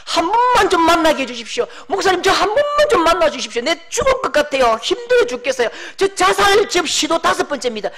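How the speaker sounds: high, begging voice of a despairing youth; imitating a desperate young man begging for help; desperate pleading. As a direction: plead to be seen, at the end of your rope. Young people begging the pastor.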